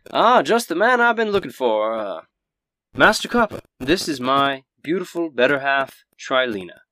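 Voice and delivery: a hint of a welcoming innkeeper introducing his wife; genial innkeeper. Innkeeper Toblin greets the player.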